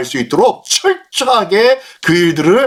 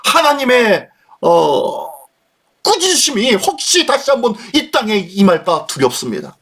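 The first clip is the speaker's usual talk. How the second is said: pleading prayer, acted; 3 semitones higher than usual. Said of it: "라고 하면서 은혜를 구하는 거예요".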